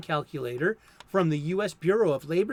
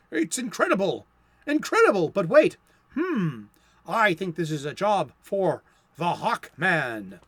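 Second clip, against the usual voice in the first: astonished hero voice, pitched up on the second "Incredible"; dramatic comic hero; 5 dB louder than usual. Acted. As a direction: declaim it like a golden-age superhero. Reading comic hero's dramatic lines.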